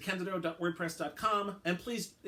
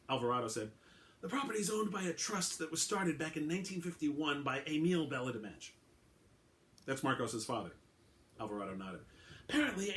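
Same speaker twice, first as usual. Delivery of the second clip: steady storyteller's read with voiced characters; story narration; 3 semitones lower than usual. Author reading his short story to his audience, storyteller voice. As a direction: read the crime story aloud to listeners.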